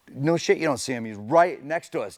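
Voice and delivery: a driver calling to his teammate that the rival is right beside them, in an urgent shout. Retold or imitated. Retelling shouting to teammate in car.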